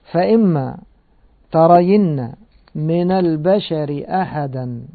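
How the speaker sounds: slow, measured tajweed chant of the verse; Quran recitation. Acted. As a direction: recite it as in prayer, drawing out the vowels. (تلاوة مرتلة بطيئة)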